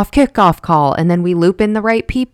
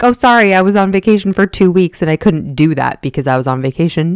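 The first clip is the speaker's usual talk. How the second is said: mock breezy excuse. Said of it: "I could be like".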